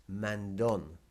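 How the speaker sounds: "mandón" with the final DÓN hit; stress on O. Shown as a demonstration. Teacher explaining the written accent, "mandón" stressed on DÓN. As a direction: punch the last syllable of "mandón". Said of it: "that that O is hit".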